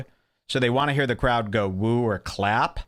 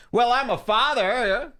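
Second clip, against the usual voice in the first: higher, slowed mock dad-comic line; 11 semitones higher than usual. Mocking the comic's weak dad bit, higher and slow. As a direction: ham up the lame segue. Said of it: "you just go into that material".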